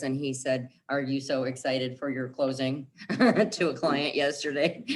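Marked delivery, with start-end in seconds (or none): 0.9-2.9 monotone robotic delivery; flat like a robot, no inflection. Retold or imitated. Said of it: "he talks like a robot like this".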